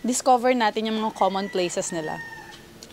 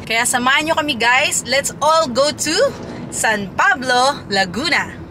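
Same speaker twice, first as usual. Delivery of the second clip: excited invitation; 3 dB louder than usual. Real, not acted. Inviting viewers along to the destination.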